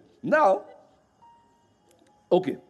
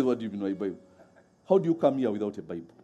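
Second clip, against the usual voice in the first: confused guy; 6 semitones lower, faster than usual. Retold or imitated. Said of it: "The guy says".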